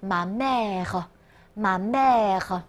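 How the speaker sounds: ma mère with the last e unvoiced, ending on the French r; slow ma mère, finishing on a soft r; silent final e. Shown as a demonstration. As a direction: model ma mère clearly for repetition. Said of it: "呃在结尾不发音".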